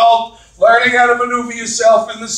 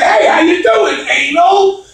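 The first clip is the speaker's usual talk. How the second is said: high, cheery hail; hearty greeting; 8 semitones higher, slower than usual. Retold or imitated. Comedian greeting his new brother-in-law, hearty and high. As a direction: call out the hello with pitch up.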